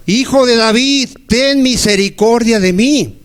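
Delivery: slow, drawn-out plea to Jesus; a blind beggar crying out to Jesus, slow and pleading; pleading blind man. Acted. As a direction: beg for mercy, stretching each word. Preacher voices blind man's plea.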